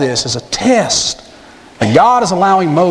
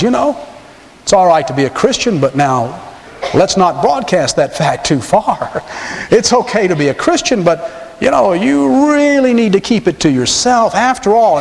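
Satan's coaxing voice; 3 semitones higher than usual. Retold or imitated. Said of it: "Satan whispers in your heart, and he says".

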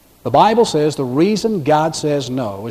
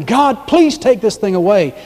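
slow, higher acted plea; begging; 4 semitones higher than usual. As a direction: imitate Paul begging God in prayer. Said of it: "Paul is begging".

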